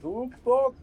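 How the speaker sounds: high, lifted call to a companion. Acted. Player tells Sputnik to come and look, calling out. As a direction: call them over lightly.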